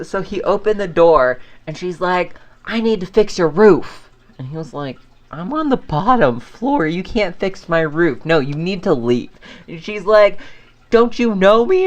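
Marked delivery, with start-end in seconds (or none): 2.6-4.1 higher, louder mock demand; insistent stranger. Stranger at the door demanding roof work, mock insistence. 5.3-9.3 higher-pitched mock indignation, easing down; indignant refusal. Friend turning away a stranger at night, mock indignant. Retells his refusal at door. 10.9-11.9 higher, louder mock challenge; incredulous stranger. Stranger challenging the man at the door, mock incredulous.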